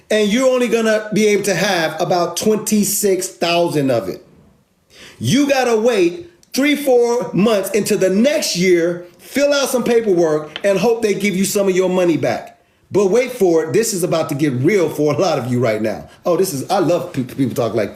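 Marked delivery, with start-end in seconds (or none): 5.2-12.6 heated repeat. Real, not acted. Hammering the refund wait home to viewers, raised and insistent. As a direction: say it again, higher and more insistent.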